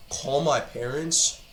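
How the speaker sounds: slow, rising disbelief; disbelieving. Real, not acted. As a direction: repeat it as if you can't believe it. Repeating the threat in disbelief.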